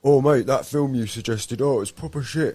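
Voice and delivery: annoyed customer. Retold or imitated. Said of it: "the customer that comes back and goes".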